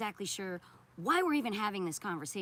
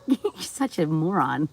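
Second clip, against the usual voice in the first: slow mocking insult; 14 dB louder, slower than usual. Real, not acted. Streamer taunting a chatter who blocked himself, slow and mocking. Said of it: "Oops, I did kinda call you a mean name".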